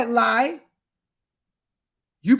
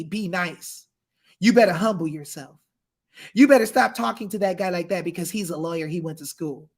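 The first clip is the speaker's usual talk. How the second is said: much lower, softer mock lecture; mocking scold; 8 semitones lower, 4 dB quieter than usual. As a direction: sneer at the people telling him to behave. Mocking those who silence him.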